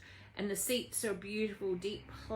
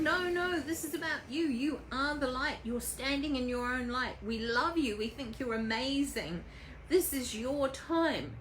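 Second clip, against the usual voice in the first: raised, emphatic cheering-on; adoring insistence; 3 semitones higher than usual. Acted. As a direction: insist on their worth like an adoring crowd. Crowd reassures Phyllis in story.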